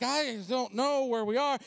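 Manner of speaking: acted frantic, slow drawn-out words; a touch of comic panic. Pastor forgot address on the phone, mildly frantic reply. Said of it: "I'm frantic".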